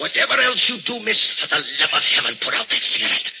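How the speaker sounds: loud, urgent begging; agitated warning, dropping at the end; alarmed plea. Acted. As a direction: plead in sudden alarm. Alarmed plea about fire danger.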